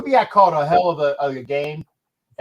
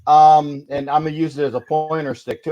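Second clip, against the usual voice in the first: lollipop in the mouth; sucking a lollipop; 2 semitones lower than usual. Real, not acted. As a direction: talk around a sucker. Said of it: "gonna talk with a lollipop in my mouth".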